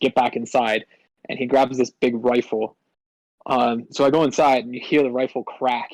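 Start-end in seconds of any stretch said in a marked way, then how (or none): none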